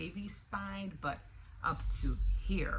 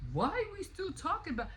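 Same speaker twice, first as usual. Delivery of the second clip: aggressive Trump; 13 semitones higher than usual. Retold or imitated. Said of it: "all aggressive".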